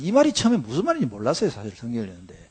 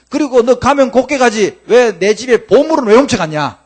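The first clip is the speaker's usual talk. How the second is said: Laban complaining; 5 dB louder than usual. Retold or imitated. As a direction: grumble then blow up in protest. Laban confronting Jacob, retold.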